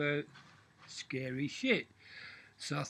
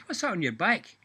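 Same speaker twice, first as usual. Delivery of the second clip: devil's question; 5 semitones higher, 6 dB louder than usual. Acted.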